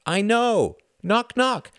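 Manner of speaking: put-on very high little girl voice; little girl knock. A narrator's reading. Lillian tugging his ear, very high child voice. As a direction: chirp it like a tiny child.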